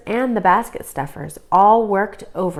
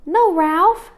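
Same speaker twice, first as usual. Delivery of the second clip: put-on high, louder young girl; firm sister; 10 semitones higher, 5 dB louder than usual. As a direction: stop him firmly. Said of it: "said Liza".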